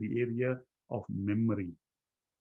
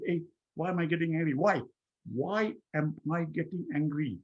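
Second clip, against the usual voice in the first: higher, urgent self-questioning; questioning oneself; 4 semitones higher than usual. Acted. Speaker catching their own anger, urgent self-questioning. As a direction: challenge yourself sharply, voice raised in pitch. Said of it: "the first thing to recognize".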